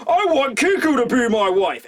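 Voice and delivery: a hint of a smitten young samurai; mock Urashima. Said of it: "Urashima's like".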